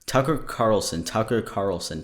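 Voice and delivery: tongue twister repeat. Shown as a demonstration. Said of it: "Tucker Carlson three times fast".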